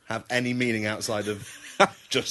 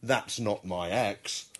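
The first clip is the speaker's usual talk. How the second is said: slow; 3 semitones lower, 5 dB quieter, much slower than usual. Shown as a demonstration. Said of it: "has to realise ... and say".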